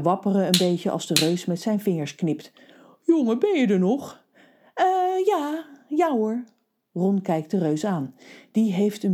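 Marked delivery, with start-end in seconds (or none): 3.0-4.2 whisper. Acted. 4.7-6.4 high, flustered yes; boy caught staring answers flustered; startled boy. Acted. Boy startled back to attention.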